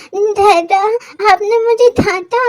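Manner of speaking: put-on a kid sulking after being scolded; hurt child.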